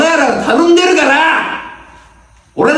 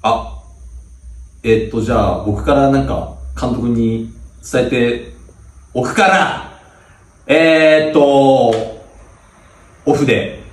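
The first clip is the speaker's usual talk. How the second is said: much lower and softer, deflated; timid; meek senior; 10 semitones lower, 3 dB quieter than usual. Acted. Cowed senior tells the team about practice, timid and subdued.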